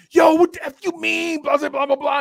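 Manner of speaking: hammed-up angry Brooklyn rant; mock cussing out. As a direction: imitate a passer-by cussing everyone out. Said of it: "She's like".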